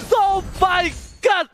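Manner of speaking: excited shout. Real, not acted. Caster reacts to the play.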